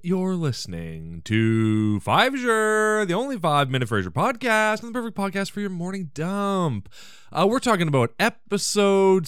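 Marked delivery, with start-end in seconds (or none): 0.0-6.9 drawn-out radio host greeting, rising in pitch; mock radio-host opening; podcast intro announcer. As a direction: announce the show with stretched, showy phrasing.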